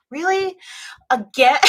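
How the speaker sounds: high-pitched, incredulous mock reaction; exasperated disbelief. Streamer reacting to yet another case, exasperated.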